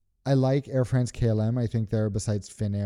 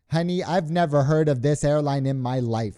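a hammed-up New York accent, pitched higher; 4 semitones higher than usual. LaGuardia check-in agent brushing off a traveler's airline, New York accent. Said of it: "said no accents".

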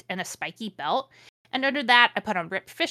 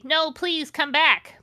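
higher, slow hammed-up pleading; mock sad plea; 8 semitones higher, 6 dB louder, slower than usual. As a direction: beg her back like a heartbroken goth. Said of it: "shouted Draco sadly".

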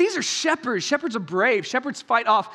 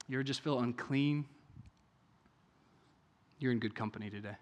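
quiet preaching; 6 semitones lower, 7 dB quieter than usual. Acted. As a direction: draw the congregation in close with a soft voice. Soft reflective stretch of sermon.

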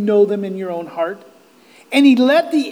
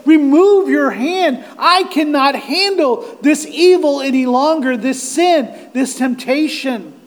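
raised, desperate plea; Job's pleading lament; 4 semitones higher, 3 dB louder than usual. Acted. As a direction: beg God for relief, easing off at the end. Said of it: "as Job would say".

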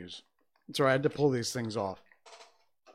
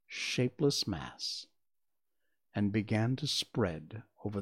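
measured, expressive storybook reading; story narration. A narrator's reading. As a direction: read it aloud as a storyteller, phrase by phrase. Reads a story aloud.

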